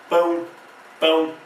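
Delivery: "pão" with the O said as U; final U sound. Shown as a demonstration. Teacher showing the O in the word, final U sound. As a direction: say "pão" ending in a U glide. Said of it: "O com som de U".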